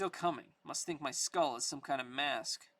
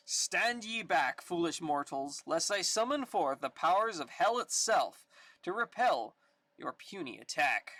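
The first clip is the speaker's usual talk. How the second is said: dark lord; 4 dB louder than usual. Acted. Ghost Rider threatens gang.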